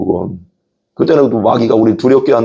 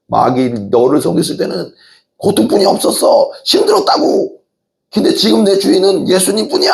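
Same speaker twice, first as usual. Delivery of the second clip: rising to a high shouted declaration; crying out; 7 semitones higher than usual. Retold or imitated. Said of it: "이제 외치잖아". (마귀에게 외치는 크리스천, 높이 외치듯)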